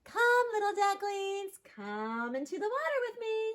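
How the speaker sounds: high, singsong coaxing voice; mother duck calling. A narrator's reading. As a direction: coax the ducklings into the water. Mother duck calls in story.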